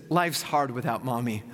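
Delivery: put-on deflated, as a defeated four-year-old; sad little boy. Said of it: "he looks at me and he says".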